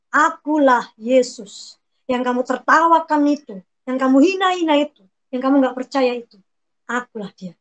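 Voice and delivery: slow voice of Jesus. Retold or imitated.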